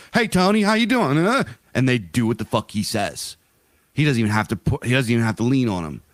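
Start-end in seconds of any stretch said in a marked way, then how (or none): 0.1-1.4 nervous neighbor reply. Retold or imitated. Scared rich neighbors answer Tony, high eager greeting. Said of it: "And they're like".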